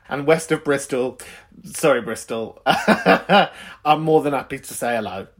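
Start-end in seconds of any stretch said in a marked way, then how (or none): 2.7-5.3 laughing. Real, not acted. Laughing while saying it.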